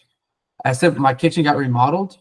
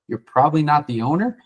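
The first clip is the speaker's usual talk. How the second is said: going negative; 3 semitones higher than usual. Shown as a demonstration. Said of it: "in the first part".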